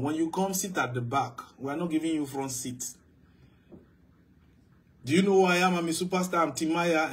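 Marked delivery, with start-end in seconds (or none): 5.0-7.1 arrogant celebrity. Retold or imitated. Preacher mimicking a celebrity demanding a front seat, boastful. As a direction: puff up like a pompous superstar. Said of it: "Timaya says".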